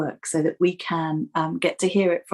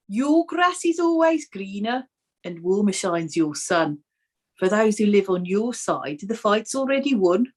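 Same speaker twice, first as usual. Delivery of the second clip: put-on lightly done Brummie accent, poem read aloud; reading verse in a Brummie accent. Reading alternate verses to her co-host in a Brummie accent. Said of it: "do you want Brummie".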